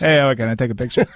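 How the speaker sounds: lightly voiced Tony impression; quick, light Tony impression; Tony's voice. Shown as a demonstration. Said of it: "How would you say ... in Tony's voice".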